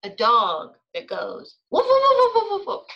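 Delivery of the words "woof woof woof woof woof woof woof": loud, high rapid-fire woofs; imitated barking. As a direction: yap loudly like an excited dog. Child imitates a dog bark.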